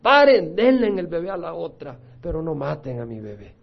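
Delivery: desperate mother crying out, then pleading; a mother's cry to spare her baby; anguished cry. Acted. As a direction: cry out to stop them, fading to a plea. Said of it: "con compasión grita y dice".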